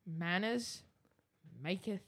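halting, word by word. Retold or imitated. Co-host mocks host's motto, halting imitation. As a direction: leave long pauses between the words.

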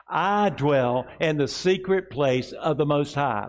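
slow, deliberate congregational recitation; slow call-and-response declaration. Shown as a demonstration. Pastor leading the congregation in a slow declaration. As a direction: lead it slowly for the room to repeat. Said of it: "Can we say it together?".

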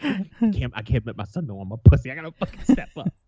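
worked up and squeaky, playing it for laughs; hammed-up exasperation; retold extra mad. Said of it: "I got extra mad".

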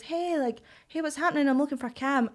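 mock cheery regular. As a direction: wheedle like a friendly drunk. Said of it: "he goes".

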